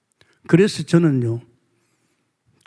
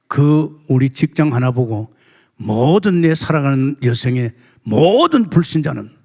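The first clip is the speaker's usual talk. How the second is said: ordinary talk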